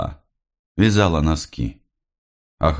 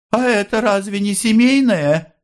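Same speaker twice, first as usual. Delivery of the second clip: much higher, indignant objection; objecting mother. A narrator's reading. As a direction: argue back in a high mother's voice. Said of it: "возразила мать". (мать возражает надзирателю высоким голосом)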